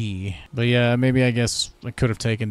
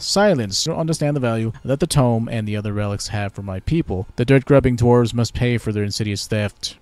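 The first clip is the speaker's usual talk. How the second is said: haughty elf, a touch louder; elf ambassador; 2 semitones higher, 5 dB louder than usual. Pretend. Elven ambassador greets the new Lord Protector, haughty. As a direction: greet the human with lofty pride.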